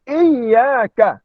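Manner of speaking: IYYAKA with a held, doubled y; bacaan bersabdu. Shown as a demonstration. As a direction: stress and hold the doubled y in iyyaka. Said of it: "Kita sewajibnya baca". (iyyaka dengan sabdu yang jelas)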